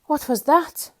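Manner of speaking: high, loud alarmed question; frightened shriek. A narrator's reading. Mister Jelly shrieking at a snoring tramp. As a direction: shriek at the snore. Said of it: "shrieked Mister Jelly".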